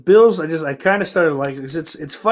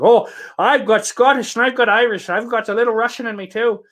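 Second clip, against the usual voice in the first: mock American accent, higher and louder; 9 semitones higher, 7 dB louder than usual. Streamer mocks Americans claiming ancestry, American accent. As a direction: parody an American bragging about Irish roots in an American accent. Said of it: "That was my American accent".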